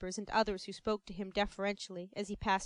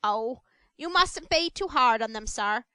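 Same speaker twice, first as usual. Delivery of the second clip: coaxing; 6 dB louder than usual. Acted. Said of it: "said Missus Mann coaxingly".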